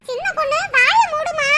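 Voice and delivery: loud scolding to shut her up; shut up order. Acted. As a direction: snap the order loud and sharp. Mother-in-law silences daughter-in-law.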